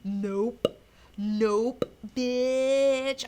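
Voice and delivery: loud, punched, mock-defiant no; defiant refusal. Acted defiant refusal by Rorschach.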